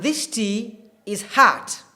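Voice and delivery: American "hot" with an open "ah" vowel, like "haht"; slow American demo, "hot" opened to "haht"; American accent. Shown as a demonstration. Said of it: "typical American accent".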